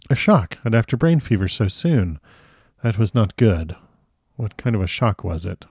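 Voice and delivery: lightly voiced concerned doctor; a hint of a foreign professor, troubled and questioning; Van Helsing. Van Helsing concerned about the shock.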